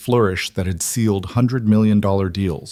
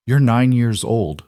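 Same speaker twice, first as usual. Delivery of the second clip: soft; 3 semitones higher, slower than usual. Acted. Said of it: "Vanessa said softly".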